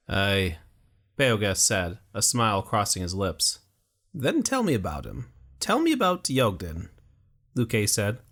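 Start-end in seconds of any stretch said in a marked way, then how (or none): 0.1-0.6 a wounded fighter facing the end; dying warrior. A narrator's reading. 4.1-6.9 put-on much higher, pleading young voice; cling to hope for your friend; young Luque, desperate. A narrator's reading. Young man begging his dying friend, high and urgent.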